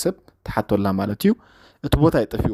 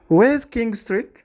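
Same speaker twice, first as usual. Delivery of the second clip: British clipped where's; 12 semitones higher, 4 dB louder, slower than usual. Shown as a demonstration. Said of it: "ብሪቲሽ ስለ ዝኾነት".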